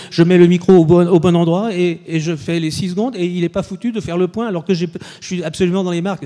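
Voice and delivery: fuming star complaining he knows his lines; angry outburst. Retold or imitated. Sean furieux contre le pointeur. (colère indignée, plus aiguë et plus forte)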